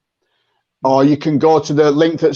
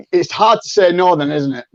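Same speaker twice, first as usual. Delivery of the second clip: ordinary delivery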